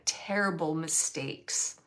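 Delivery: slow, low "terrible", stretched out; "terrible" said slowly and heavily; stress on terrible. Retold or imitated. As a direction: weigh down the word "terrible" as you quote him. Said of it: "he's using that word terrible".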